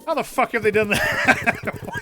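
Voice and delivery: stunned and drawn out; genuinely surprised. Real, not acted. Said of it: "not even immediately upset, just genuinely surprised".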